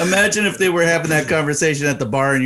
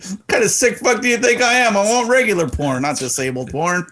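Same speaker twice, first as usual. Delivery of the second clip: hammed-up indignant, higher and cracking; mock outrage; 5 semitones higher than usual. Cohost joking about hotel porn, mock indignant. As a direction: pretend to be offended, playing it up.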